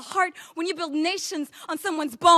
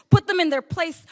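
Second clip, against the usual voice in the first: cold command; 3 semitones higher, 8 dB louder than usual. Acted. Soldiers deliver a threatening message.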